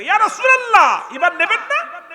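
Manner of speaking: high, loud cry to the Prophet; calling out. Acted. Little brother calling the Prophet to take him, loud cry. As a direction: yell it eagerly as the little brother. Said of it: "ছোট ভাই ডাক দেখো".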